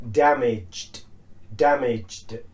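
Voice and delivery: "damaged" ending in a voiced d. Shown as a demonstration. Teacher modelling past tense, D ending. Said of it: "It's a D sound".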